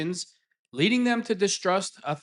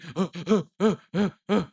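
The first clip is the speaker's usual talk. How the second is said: mock hyperventilating gasps; 3 dB louder than usual. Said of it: "he's hyperventilating".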